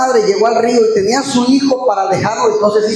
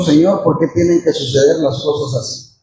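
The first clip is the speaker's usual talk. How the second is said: tearful lament; 5 semitones lower than usual. Acted. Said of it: "con lágrimas en los ojos dijo".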